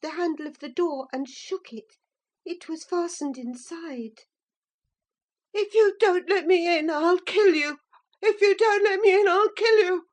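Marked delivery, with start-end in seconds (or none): 5.5-10.1 louder, rising shriek of rage; shrieking threat. Acted. Linton shrieks at Earnshaw through the locked door. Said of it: "he rather shrieked than said".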